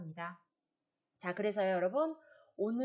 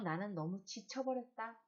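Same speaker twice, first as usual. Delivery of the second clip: resigned; 4 dB quieter than usual. Acted. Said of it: "체념하는 거죠".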